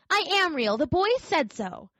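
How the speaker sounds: little rabbit on the verge of tears; near tears. Acted. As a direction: insist it, close to crying. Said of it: "he nearly began to cry".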